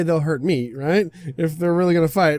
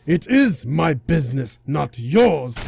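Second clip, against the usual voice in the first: indignant guardian god; 5 dB louder, slower than usual. Acted. God quarrels over the child.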